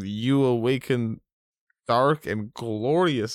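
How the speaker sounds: drawn-out menacing lord; dark lord. Retold or imitated. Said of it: "I'm talking like the Dark Lord".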